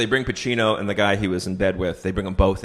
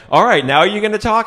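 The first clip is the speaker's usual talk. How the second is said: mock-pushy cop; 10 semitones higher, 7 dB louder than usual. Cop pressing the suspect.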